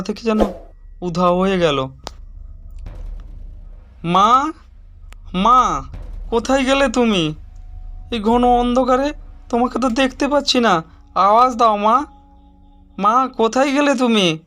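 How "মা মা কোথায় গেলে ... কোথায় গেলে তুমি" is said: raised, higher voice calling into the darkness; calling out for mother. Acted. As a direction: call for her, searching and worried. Son lost mother in dark forest.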